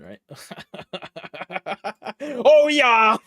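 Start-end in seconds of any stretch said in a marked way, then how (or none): 2.2-3.2 loud, high mock German shout; shouted German accent. Shown as a demonstration. Streamer testing whether shouting makes it German, shouted mock German accent. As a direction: bellow it like a cartoon German. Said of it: "if I start, like, shouting, then that's German".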